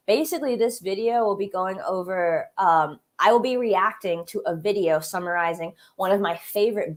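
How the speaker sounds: congested, stuffy nose. Real, not acted. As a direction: talk through a blocked-up nose. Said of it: "Sorry if I sound, like, a bit congested".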